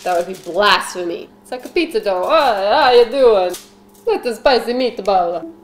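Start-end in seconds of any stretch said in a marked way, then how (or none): 2.2-5.5 lightly hammed-up Italian accent; mock Italian accent. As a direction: play a cartoon Italian pizza maker's accent. Pizza dough prompts mock Italian character.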